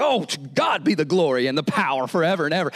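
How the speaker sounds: mildly carried-away exclamation of praise. Retold or imitated. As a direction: voice Peter swept up in worship, lightly acted. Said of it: "Peter gets carried away".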